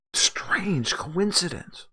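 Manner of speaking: slow, hushed, secretive whisper; a slow insinuating whisper; conspiratorial whisper. Real, not acted. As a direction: lean in and whisper it knowingly. Hinting at a conspiracy.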